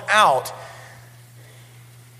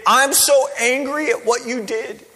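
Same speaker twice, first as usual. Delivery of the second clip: mock tantrum; 6 semitones higher than usual. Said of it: "a colossal temper tantrum".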